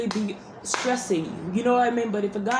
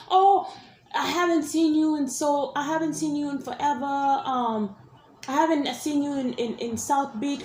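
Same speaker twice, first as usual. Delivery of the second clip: higher, exaggerated "Oh" then breezy; mock surprised guy; 6 semitones higher than usual. Imitating the guy greeting her after years, higher and hammed. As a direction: lightly ham up his fake surprise.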